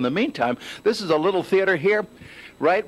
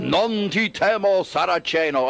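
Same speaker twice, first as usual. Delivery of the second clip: slow, drawn-out Italian declamation; mock puppet scream; slower than usual. Reporter imitating Sicilian puppeteers, slow mock battle cry. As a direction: stretch out the theatrical battle cry. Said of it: "scream things like".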